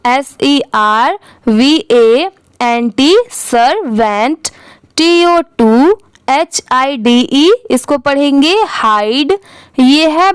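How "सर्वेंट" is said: सर्वेंट slowly as 'sur... vent'; spell-it-out slowness on सर्वेंट; two-part pronunciation. Shown as a demonstration. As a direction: draw out both halves of सर्वेंट. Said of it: "दोनों मिला देंगे तो क्या हो जाएगा".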